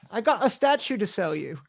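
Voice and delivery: mock Aussie voice that slips into British; a quick, half-hearted Australian impression; failed Aussie accent that comes out British; attempted Australian accent. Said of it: "That was British, not Australian".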